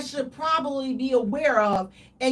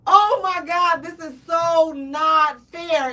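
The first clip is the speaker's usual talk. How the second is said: higher, louder, slow hammed-up sob; mock crying; 5 semitones higher, 5 dB louder than usual. To the partner, a hammed-up crying complaint. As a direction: blubber it out like a crying baby. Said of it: "I would cry like a baby".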